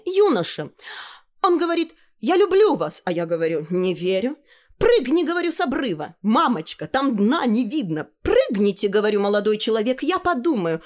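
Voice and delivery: put-on high, animated girlish storytelling; excited high-pitched bragging; boasting girl. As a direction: act out the romance in a high girl's voice. Tanya boasts of her admirer.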